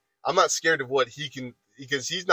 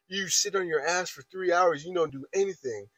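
retold yelling; 5 semitones higher than usual. Coworker accusing the speaker of idleness, mild mock yell. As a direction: imitate his scolding without shouting. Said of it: "yelling at this point".

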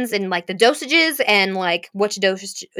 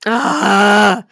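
long despairing ahh; drawn-out groan after a rant; frustrated groan; 4 dB louder than usual. Real, not acted. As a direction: let out an exasperated groan.

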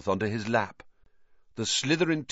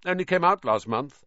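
higher-pitched, offhand boast; mildly careless bragging; 5 semitones higher than usual. A narrator's reading. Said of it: "said Flint carelessly".

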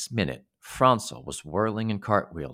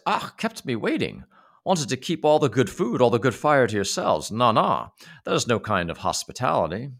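a cross, grumbling little man, louder; 4 semitones higher, 5 dB louder than usual. Acted. Rude little man scolding the boys for hoarding food.

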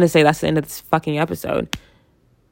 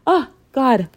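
sneezing; 8 semitones higher than usual. Real, not acted. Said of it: "I'm about to sneeze".

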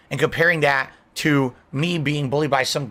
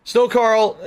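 loud scoffing call of the name; incredulous loud name call; mocking shout; 8 semitones higher, 5 dB louder than usual. Real, not acted. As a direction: blurt the name out in disbelief. Reading out a silly donation name.

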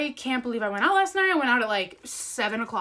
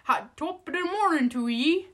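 put-on Irish accent; 5 semitones higher than usual. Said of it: "You know I can't do accents".

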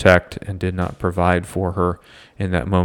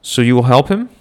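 hopeful, higher woman's voice; lightly voiced eager woman; 5 semitones higher than usual. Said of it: "Frau Mozart says".

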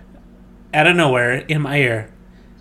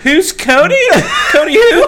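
lightly voiced Jesus; 10 semitones higher than usual. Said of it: "Jesus is like".

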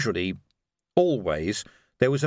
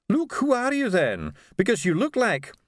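startled; 8 semitones higher than usual. Acted. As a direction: ask it rattled and unsure. Doctor startled, pressing.

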